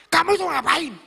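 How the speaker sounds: high, loud boss outburst; imitated angry scolding. Young boss calling out a restaurant employee, mock angry yell. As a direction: yell it at a slacking worker. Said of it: "bayangkan dia marah-marah, ngamuk-ngamuk".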